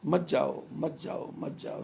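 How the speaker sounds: mild retold plea fading to a whisper; pleading father. Storyteller voicing the king begging his son to stay, fading. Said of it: "रो रहे थे".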